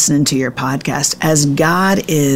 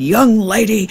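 mock scolding; 5 semitones higher, slower than usual. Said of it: "I'll go into these monologues".

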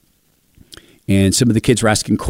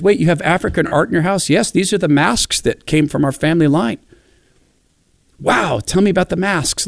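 quoting a friend; 7 semitones higher than usual. Retold or imitated. Quoted exchange about masks.

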